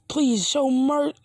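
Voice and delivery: high, slow acted begging; desperate pleading. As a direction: plead for your life, drawn out. Man begs before being cut down.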